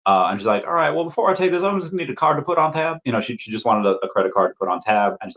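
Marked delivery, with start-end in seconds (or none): 0.7-3.0 high-pitched Southern Belle waitress; put-on Southern Belle sales voice; Southern Belle accent. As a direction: imitate a Southern Belle asking for payment. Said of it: "Southern Belle accent".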